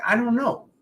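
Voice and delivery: put-on a flustered kid's helpless squeak; high defensive kid. Boy answering jealous cousins in a high, defensive squeak. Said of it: "I'm like".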